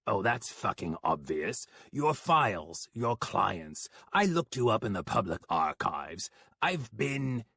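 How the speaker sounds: mild flustered rant; defensive outburst; railing. Acted. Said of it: "Johann railed".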